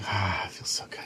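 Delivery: whispered sigh of relief. Retold or imitated. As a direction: whisper it like drifting off blissfully. Mimics relief under sedation.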